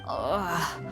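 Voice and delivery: low groan of discomfort; groan, feeling unwell; a dizzy, drained "ugh". Acted. Unwell character groans when asked.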